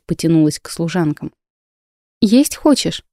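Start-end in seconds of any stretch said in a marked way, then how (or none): 2.2-3.0 bright, higher happy question; pleased surprise at the baby; delighted. Acted. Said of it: "обрадовалась я".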